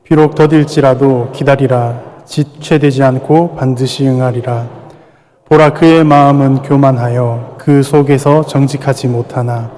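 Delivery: slow, measured scripture recitation; scripture reading. Acted. Pastor leads the church reading Habakkuk two, slow recitation. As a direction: draw each phrase out together. Congregation reads scripture slowly.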